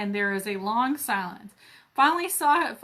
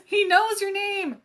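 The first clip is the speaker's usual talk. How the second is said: higher, louder gasp of surprise; mock shock; 8 semitones higher, 4 dB louder than usual. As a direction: act shocked in fun.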